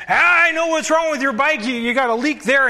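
put-on New York biker offering help, brash accent. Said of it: "with this New York accent".

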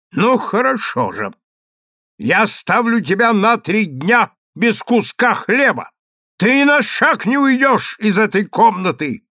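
high loud verdict; angry sentence. Acted. Consul sentencing his wife to three days, angry. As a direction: pronounce the punishment coldly furious. Husband pronouncing punishment.

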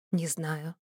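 quiet, musing answer; thoughtful reply. Acted. Necromancer answering the heroine, quietly thoughtful. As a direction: mull it over softly. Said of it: "задумчиво отозвался некромант".

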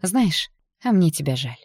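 slow, strained smiling pity; forced smile. Acted. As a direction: smile through the pain. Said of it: "через силу улыбнулась".

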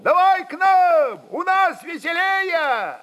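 high, loud call, slowing at the end. Acted. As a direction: beckon him over cheerfully. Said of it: "закричали от казаков". (высокий зов, весёлый и громкий)

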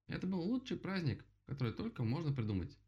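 high, drowsy rabbit voice; light yawning delight; sleepy rabbit. Acted. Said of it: "сказал кролик, зевая".

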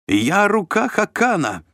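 high, loud, slow proud cry; exclaim. A narrator's reading. Shlom proclaims himself the Khakan's hand, high loud cry. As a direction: proclaim your rank with a shout. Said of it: "воскликнул Шлом".

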